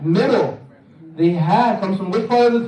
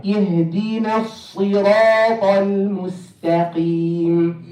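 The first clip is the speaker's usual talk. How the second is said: slow chanted verse, vowels held; Quran recitation; much slower than usual. Shown as a demonstration. Teacher modelling the verse for repetition, slow recitation. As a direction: recite it slowly for others to echo.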